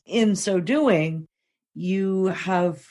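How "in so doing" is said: high, slow, emotion catching the voice; moved and struggling to get going; about to cry. Real, not acted. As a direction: gather yourself through real near-tears. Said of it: "now I'm gonna cry".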